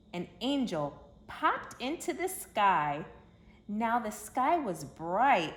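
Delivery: gentle, storybook read-aloud voice; reading to children. A narrator's reading. Narrator telling kids the Christmas story, storybook voice. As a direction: tell it like a bedtime story for little ones.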